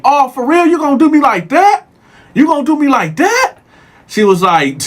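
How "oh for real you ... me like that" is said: incredulous pleading. Retold or imitated. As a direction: plead like you've been betrayed. Inmate pleading with the guard.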